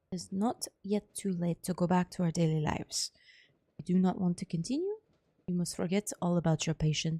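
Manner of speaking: put-on measured speech in a light German accent; softly put-on German accent; attempted German accent. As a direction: speak gravely with an imperfect German accent. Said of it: "I'm trying to do a German accent".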